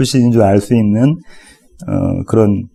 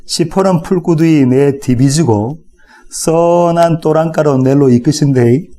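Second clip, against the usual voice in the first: Gyeongsang dialect; 3 semitones higher than usual. Shown as a demonstration. Pastor reading Psalm 23 to the congregation in Gyeongsang accent. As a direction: recite it like a Gyeongsang local, drawing out some lines. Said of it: "경상도 버전으로 한번 제가 읽어보겠습니다".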